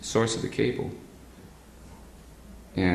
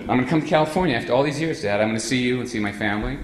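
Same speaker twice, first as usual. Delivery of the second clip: fast, eager rush of words; excited message; 2 semitones higher, faster than usual. Retold or imitated. Telegram to his father, fast and excited. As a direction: tumble out the happy news. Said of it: "I was so excited".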